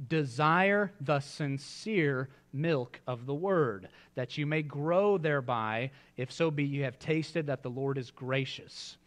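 slow, measured reading; scripture reading. Acted. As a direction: read the verse reverently.

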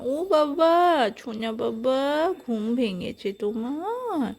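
slow, tender wake-up call; affectionate coaxing. Shown as a demonstration. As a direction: coo to a little one waking up. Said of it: "এমন করে আদর করে করে উঠাতাম". (আদর করে ঘুম ভাঙানোর সুর)

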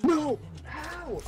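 loud angry yell; frustrated shout. Real, not acted. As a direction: shout in disbelief. Angry at being killed.

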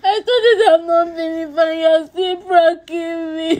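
half-sung sobbing complaint; wailing it out in tears; crying lament. Real, not acted. Girlfriend wailing at her boyfriend.

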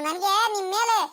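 sobbing through ನನ್ಗೆ ನಿಮ್ ಮೇಲೆ; tearful sulking complaint; crying child. Acted. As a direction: voice catching in a sob as the hurt child. Child sulks, starts crying.

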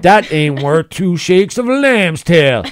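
folksy Southern twang, lightly voiced; Southern hick saying. S0 as Big Earl reciting a folksy saying, light Southern twang. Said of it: "this Southern Midwest guy".

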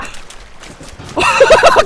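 breathless high shriek; long unvoiced screech; panicked shriek. Real, not acted. Jump scare in the game.

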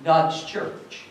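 breathy whisper on "God's church"; whispered challenge. Real, not acted. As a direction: let it fall to a whisper. Whispered end of question.

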